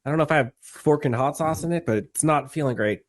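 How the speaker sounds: numb lips, burning nose; numb mouth. Real, not acted. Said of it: "right side of my mouth is numb".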